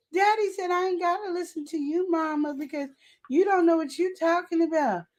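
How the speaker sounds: put-on high kid voice talking back; mock kid defiance. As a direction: sass Mom like a child. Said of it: "That's what he said".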